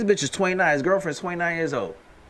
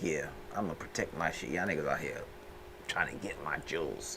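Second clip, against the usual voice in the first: put-on old man voice; 12 semitones lower, 15 dB quieter than usual. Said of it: "I'd be like".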